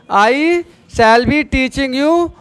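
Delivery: slow, word groups set apart; slow dictation. Shown as a demonstration. Teacher gives the class the translated sentence, slow dictation. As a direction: dictate it slowly in separate chunks.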